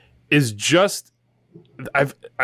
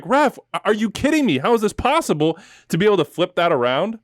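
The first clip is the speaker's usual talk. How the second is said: imitating his own yell at the screen, pitched much higher; mock yell at the ref; 8 semitones higher than usual. Fan yelling at the referee on screen, mock outraged and high-pitched. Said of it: "me yelling at the screen, being like".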